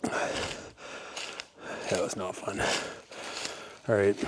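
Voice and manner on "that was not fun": very slow, much softer whisper; slow shaken whisper. Real, not acted. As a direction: drag it out in a hushed whisper. Shaken after the bear encounter.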